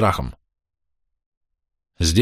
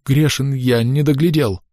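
higher, cracking plea; trembling husband confessing to the priest; breaking voice; 6 semitones higher than usual. A narrator's reading. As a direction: gasp out the guilt, voice breaking. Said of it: "срываясь".

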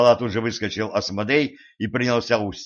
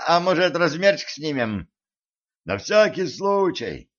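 eager chatter; 6 semitones higher than usual. A narrator's reading. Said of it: "загомонил адский спецназ".

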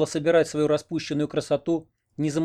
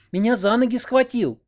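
high, louder panicked cry; 10 semitones higher, 4 dB louder than usual. Acted. Oksana seized by the legs, crying out in panic. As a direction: shriek out in fright.

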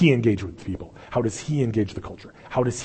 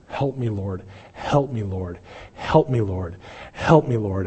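soft, pleading "Help me, Lord", no real scream; quiet retold plea; slower than usual. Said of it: "just screaming out".

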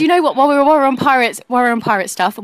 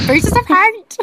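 slow squawky parrot impression; 8 semitones higher, slower than usual. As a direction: drag it out like a parrot. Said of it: "Why do we do the parrot voice?".

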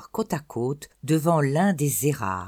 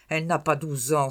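dismissive echo. Acted. Grandmother repeating dismissively.

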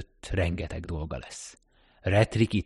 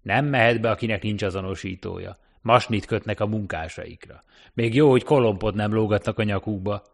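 louder scornful driver voice; contemptuous cabbie; 2 semitones higher, 5 dB louder than usual. Acted. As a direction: sneer at the workers' ribbons. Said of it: "A sofőr megvetően felhorkant".

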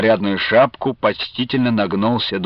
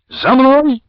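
battle cry; 12 semitones higher, 5 dB louder than usual. Retold or imitated. Imagined battle call.

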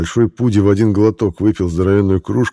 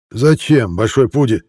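put-on drunk; 6 semitones higher, 3 dB louder than usual. A narrator's reading. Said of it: "пьяно вращая глазами".

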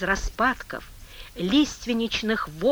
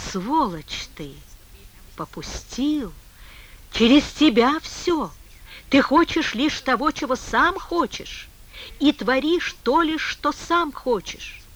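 angry; 3 semitones higher, 3 dB louder than usual. Acted. Man cursing God in despair.

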